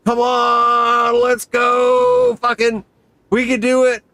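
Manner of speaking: will yourself across the sky; urgent self-encouragement. Retold or imitated. Urging himself back to dropzone.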